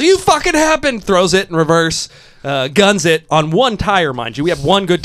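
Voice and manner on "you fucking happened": high, louder mock-furious outburst; retold angry yell. Driver to the guy who caused the crash, mock-angry yell. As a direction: throw it back as an indignant mock yell. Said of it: "Driver yells".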